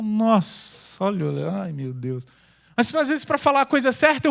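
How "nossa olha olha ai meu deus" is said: quiet fussing "oh my God" from the crowd; soft mock dismay; mock shocked onlookers. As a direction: mimic people startled by his loudness. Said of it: "E todo mundo fala".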